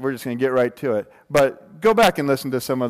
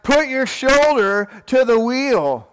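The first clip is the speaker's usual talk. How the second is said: booming god voice; 4 semitones higher, slower than usual. Retold or imitated. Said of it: "Hercules shouted back".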